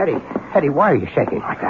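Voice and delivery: high, quick alarmed questions; startled to find her trembling. Acted.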